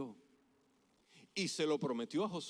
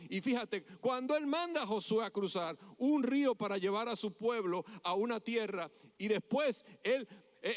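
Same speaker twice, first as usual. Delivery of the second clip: emphatic, driving sermon; impassioned preaching; 4 semitones higher, 3 dB louder than usual. Real, not acted. Preacher explaining God sending Joshua across, emphatic preaching. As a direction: press the point on the congregation.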